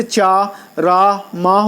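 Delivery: "چا، را، ماہ" said chaah, raah, maah; slow list of چا، را، ماہ ending on an audible h; sounded final h. Shown as a demonstration. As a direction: let a clear h close چا، را، ماہ. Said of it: "جو صاف اور واضح طور پر پڑھا جائے".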